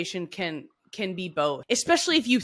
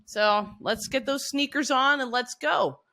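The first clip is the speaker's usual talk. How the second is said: put-on gentle, softer coaxing to an inner child; nurturing parent; 4 semitones higher, 5 dB quieter than usual. Voicing a nurturing parent to herself, gentle and soft. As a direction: coax yourself like a kind parent. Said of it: "a nurturing parent to your inner self and say".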